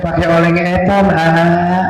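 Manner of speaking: put-on says "oleng eton" for goreng jengkol, babyish; cute cadel baby talk, dropping g and jk; lisping baby talk. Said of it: "Kata bininya teh".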